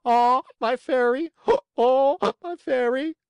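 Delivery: very high, loud hee-haw cry; joyful cry breaking into braying; loud donkey bray. A narrator's reading. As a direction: bray the words out like a donkey trying to talk. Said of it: "a loud braying was heard".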